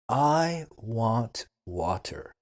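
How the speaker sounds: slow, careful example sentence; slow model sentence. Shown as a demonstration. Teacher models a sentence for beginners, slow and clear. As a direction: say it slowly for learners. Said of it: "Repeat after me".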